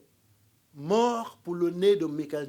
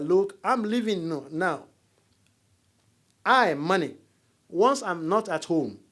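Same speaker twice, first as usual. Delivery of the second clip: louder, proclaiming as money personified; money speaking; 8 dB louder than usual. Retold or imitated. Money warning the household, declared louder. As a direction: announce it like money leaving home. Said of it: "spoke to everybody there that".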